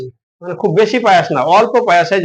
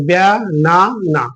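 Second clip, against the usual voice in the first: "ব্যানা না" in three slow, separate beats; split into syllables; slower than usual. Shown as a demonstration. Teacher showing pupils the three syllables, "ব্যানা না" slowly split. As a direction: break "ব্যানা না" slowly as ব্যা, না, না. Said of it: "উচ্চারণ ভাগ করছি কয়বারে".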